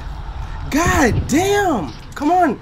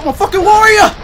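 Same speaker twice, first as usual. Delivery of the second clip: battle cry; 4 semitones higher, 4 dB louder than usual. Pretend. Hyping himself mid-fight.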